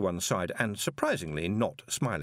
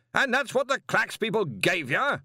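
high, louder pressing question; demanding; 12 semitones higher, 4 dB louder than usual. A narrator's reading. Arch-Chancellor demands answers from the young wizard, louder. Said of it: "the Arch-Chancellor demanded".

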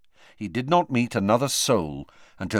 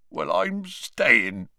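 slow, heavy giant's voice through tears; tearful Hagrid; 2 semitones higher, much slower than usual. Acted. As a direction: drag it out, still weeping.

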